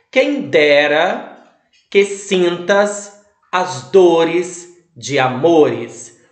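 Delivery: Quem dera que sintas as dores de amores, said slowly with the beats marked; slow scanned verse. Shown as a demonstration. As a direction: scan the verse slowly, leaning on each stressed syllable. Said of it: "tem apenas uma sílaba acentuada".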